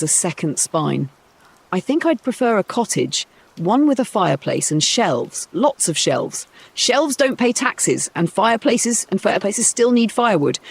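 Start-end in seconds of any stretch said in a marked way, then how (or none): 1.7-10.6 lightly voiced dreamy girl. Cinderella dreaming aloud.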